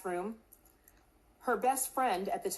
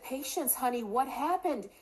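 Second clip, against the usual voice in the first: tender, worried; 4 semitones higher than usual. Retold or imitated. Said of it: "I said".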